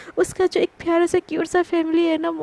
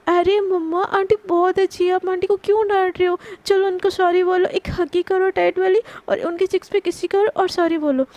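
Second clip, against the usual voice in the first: put-on bossy little girl; 3 semitones higher than usual. Little girl tells mom to apologise to auntie, high and insistent. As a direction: play a small girl bossing her mother. Child scolds mother for aunt.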